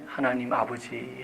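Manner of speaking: slow, soft, low call to God; earnest prayer address. Retold or imitated. Pastor opens prayer in church, imitated earnest address. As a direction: imitate a heartfelt opening of prayer, softly drawn out. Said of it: "너무나 진실되게".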